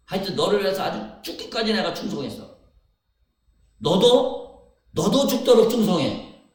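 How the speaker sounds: preacher as Jesus pleading, building to loud; building earnest call. Retold or imitated. Preacher voicing Jesus to the church, pleading loudly.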